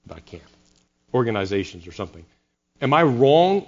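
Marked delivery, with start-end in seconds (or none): 1.1-1.9 half-hearted British "Organizations", low and quiet; attempted British accent. Shown as a demonstration. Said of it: "should pronounce that with a British accent, but I can't".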